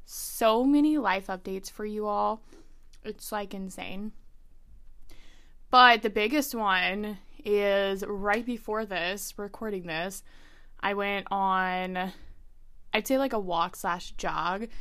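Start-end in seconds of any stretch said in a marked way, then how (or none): 5.7-14.7 out of breath. Real, not acted. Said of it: "So I'm probably out of breath".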